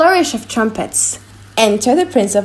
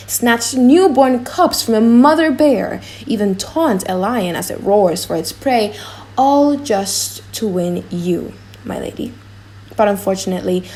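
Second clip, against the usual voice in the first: proud prince. Acted. Morocco's speech as character.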